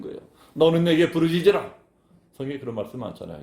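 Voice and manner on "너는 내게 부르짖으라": louder proclaiming call; cry out. Shown as a demonstration. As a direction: call it out like a summons. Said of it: "부르짖어 기도한다는 게 이런 거예요".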